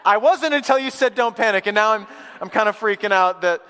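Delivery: comic rising alarm; mock freaking out. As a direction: imitate rattled passengers protesting. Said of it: "we were like".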